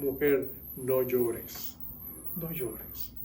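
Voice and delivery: soft, slow, tender consoling; tender comfort. Retold or imitated. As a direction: gently soothe a weeping mother. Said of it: "se lo dijo con ternura".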